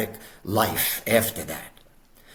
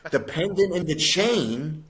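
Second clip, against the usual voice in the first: laughing; 6 semitones higher than usual. Real, not acted. Laughing in disbelief at the memory.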